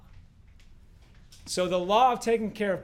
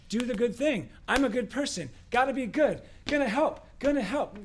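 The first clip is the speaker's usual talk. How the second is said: self-mocking; 5 semitones higher than usual. Mocking his own do-gooder mindset.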